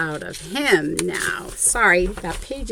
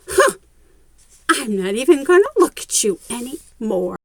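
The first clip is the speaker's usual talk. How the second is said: huffy sulk; 2 semitones higher, 5 dB louder, faster than usual. Acted. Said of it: "like she went".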